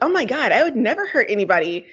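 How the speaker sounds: mock-horrified protest, pitch swinging up; dramatic. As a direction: play up the shocked innocence, mildly hammed. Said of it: "she's very, like, dramatic".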